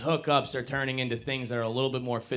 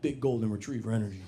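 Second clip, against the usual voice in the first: trying out the phrase; 2 semitones lower, 4 dB quieter than usual. Shown as a demonstration. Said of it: "I'm gonna start saying that".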